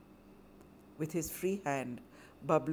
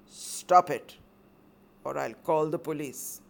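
commanding; 4 dB louder than usual. Acted. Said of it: "commanded Bablu".

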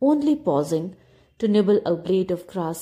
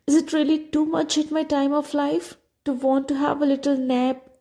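weary cat; 7 semitones higher than usual. A narrator's reading. Old cat to dog and donkey, high and weary.

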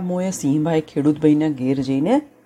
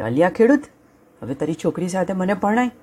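proud lion; 4 semitones higher, faster than usual. Acted. Lion returns to farmer.

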